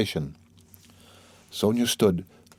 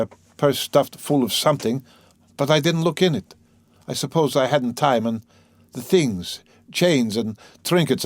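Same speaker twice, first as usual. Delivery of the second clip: higher, deliberate recounting; troubled man confessing; 4 semitones higher, 3 dB louder than usual. Acted. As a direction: lay out the crime piece by piece.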